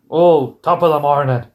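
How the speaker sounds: hammed-up stage Irish greeting; mock Irish accent. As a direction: put on a bad Irish lilt. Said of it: "I can't do that accent".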